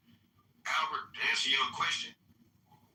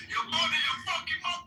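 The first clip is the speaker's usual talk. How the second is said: heated shout; 12 semitones higher than usual. Real, not acted. Mocking rebuttal in a heated argument.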